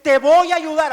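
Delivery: loud, like cheering in a stadium. Shown as a demonstration. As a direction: call it out like a fan in the stands. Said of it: "como si estuviéramos en el, en el estadio". (grito de estadio)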